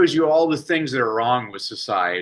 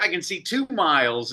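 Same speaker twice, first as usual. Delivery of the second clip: put-on little girl answering; 6 semitones higher than usual. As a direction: answer like an eager second grader. Boy answering teacher.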